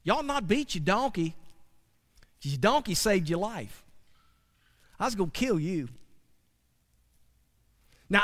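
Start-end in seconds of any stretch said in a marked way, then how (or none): 0.0-5.9 angel's warning. Acted. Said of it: "this is what he said".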